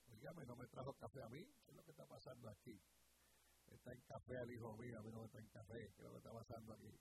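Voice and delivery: low, quiet, off-the-cuff complaint; offhand grumbling aside. Real, not acted. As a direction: drop the preaching and grumble softly about the coffee. Aparte quejándose del café. (queja al margen, en voz baja y grave)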